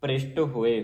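ਭ੍ਰਿਸ਼ਟ ਹੋਏ, then a stop; pause on ਹੋਏ. Shown as a demonstration. Teacher showing the rest, pausing after ਹੋਏ. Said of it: "ਹੋਏ ਤੇ ਵਿਸਰਾਮ ਹੈ".

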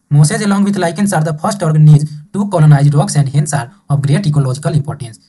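slow, deliberate textbook reading; measured dictation pace; reading aloud. Acted. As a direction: read it out word by word for the class. Teacher reads textbook line aloud.

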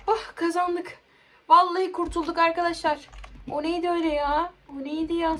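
high, loud, worked-up exclaiming; shaken relief. Real, not acted. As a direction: tell viewers you barely escaped. Saldırıdan kurtuldu, hâlâ heyecanlı. (heyecanlı, yüksek sesli rahatlama)

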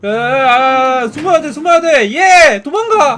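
scrambling to hide, frightened; panicked hiding. Real, not acted. Hiding from monster in game.

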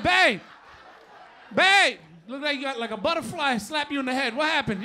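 loud mock concern at the wife; loud teasing babe. Husband to wife about her eyelash, loud teasing. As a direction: call out to her, teasing loudly. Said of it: "I said".

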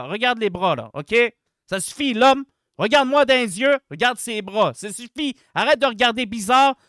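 loud, indignant confrontation; play-angry telling-off; mock threatening. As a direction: threaten him like you want a fight. Mock threats to staring man.

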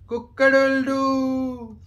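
drawn-out playful rooster call; rooster crow. Pretend. Parent voices rooster.

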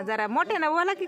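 calling out. Real, not acted. Urging shy villager to speak up.

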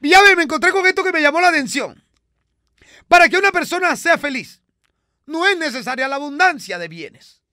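high put-on character voice. Comic character voice chatting with the host. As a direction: play it high and bright like a radio sketch character.

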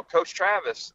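half-hearted holler of a name; mild mock yell. Retelling how someone hailed him by the car, mild mock yell. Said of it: "I kinda yelled my".

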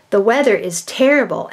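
"terrible" said as if asking, confused and unsure; wrong question tone. Shown as a demonstration. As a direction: read it like a puzzled question. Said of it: "they'll put a question on it".

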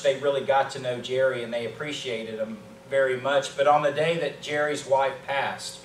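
ordinary talk

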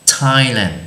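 Thailand said with a clean t, no th sound; Thailand with a plain t. Shown as a demonstration. Giáo viên đọc mẫu: Thailand với âm t, không phải th. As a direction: start Thailand on a crisp t like in ten. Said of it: "Chứ chúng ta không đọc là Thailand nhá, là chữ t".

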